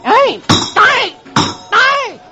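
high loud yelps; yelping Beetle. Acted. Beetle yelps while being walloped. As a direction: yelp under each blow.

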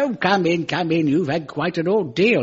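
put-on plummy old English gent, kindly; a gracious consul welcoming guests; Wilfred Hyde-White. Lightly voiced Wilfred Hyde-White gent. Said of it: "Wilfred Hyde-White lives".

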